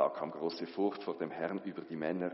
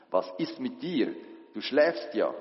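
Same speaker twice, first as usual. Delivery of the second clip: loud and higher, shaking him awake; captain shouting at a sleeping passenger to wake him; rousing shout; 6 semitones higher, 6 dB louder than usual. Acted. Captain rouses sleeping Jona.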